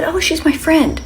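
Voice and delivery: voce da bambina più acuta e più forte; la madre imita la figlia che saluta; little girl voice. Retold or imitated. Daughter voiced high.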